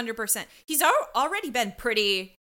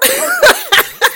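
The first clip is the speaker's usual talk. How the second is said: burst of laughter; 17 dB louder than usual. Real, not acted. Picturing straight-faced doll brunch.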